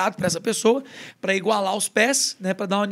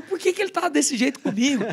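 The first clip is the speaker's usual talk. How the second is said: higher-pitched, mildly acted grievance; indignant child; 5 semitones higher than usual. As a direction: play a kid protesting to himself. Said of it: "E eu revoltado, pensando". (criança revoltada, encenada de leve)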